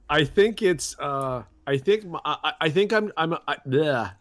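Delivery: tongue burning, words stumbling; stammering through the burn; struggling to talk. Real, not acted. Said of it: "can't talk".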